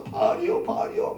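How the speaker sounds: very high, thin cry; imitated distant shouting. Prophets calling from the mountain top, mock high-pitched cry. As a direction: mimic men calling out from a mountaintop. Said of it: "장정들이 외칩니다".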